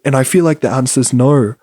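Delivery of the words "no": "no" with an Australian-style vowel, drawn toward "naur"; amateur Australian accent on "no"; attempted Australian accent. Shown as a demonstration. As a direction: try an Australian "no". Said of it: "This is bad. This is bad".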